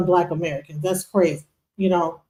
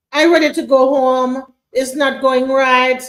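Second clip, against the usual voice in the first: put-on Caribbean accent; 3 semitones higher than usual. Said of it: "if she even wrote it in a Caribbean accent".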